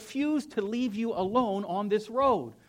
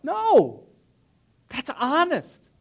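tone change; 8 semitones higher, 10 dB louder, much slower than usual. Real, not acted. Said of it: "did you hear the tone change".

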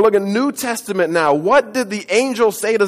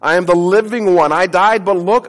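louder, rising declaration; triumphant proclamation; 5 dB louder than usual. Acted. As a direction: ring it out in triumph.

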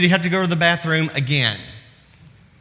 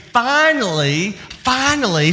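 joyful; 5 semitones higher, slower than usual. Acted. Preacher savoring Sarah's joy.

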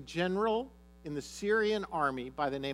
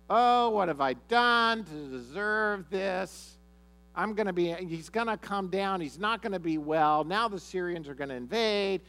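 panicking king; 3 semitones higher, 4 dB louder than usual. Acted. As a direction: moan it like a king who sees disaster coming. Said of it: "The king of Israel panics".

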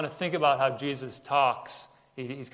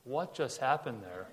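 softer, puzzled muttering to himself; mildly dazed, thinking aloud; bewildered; 6 dB quieter than usual. Retold or imitated. Nicodemus walking away in the silence of night, bewildered. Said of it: "kind of scratching his head".

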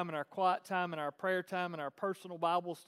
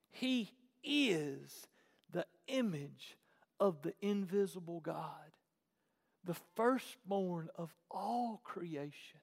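scripture reading; slower than usual. Real, not acted.

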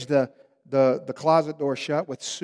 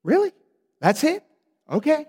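high, surprised disbelief; incredulous; 11 semitones higher, 3 dB louder than usual. Retold or imitated. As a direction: sound amazed it's that simple. Moses's surprised reply.

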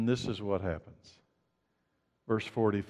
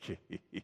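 soft imitated snicker under the breath; mocking laugh; 7 semitones lower, 14 dB quieter than usual. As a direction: quietly mimic someone laughing at you. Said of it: "they laugh at me".

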